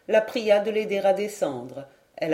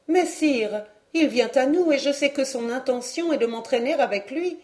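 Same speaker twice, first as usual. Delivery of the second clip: higher, a touch anxious lady; a young lady pleading, a hint of alarm; worried maiden; 5 semitones higher than usual. Maiden warning the dwarf, higher and a touch worried.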